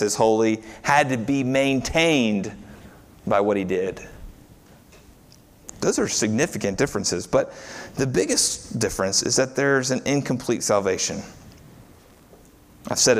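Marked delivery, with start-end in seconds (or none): none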